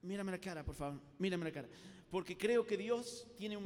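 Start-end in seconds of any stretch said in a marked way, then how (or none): 0.0-1.7 gentle request. Shown as a demonstration. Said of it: "le voy a decir".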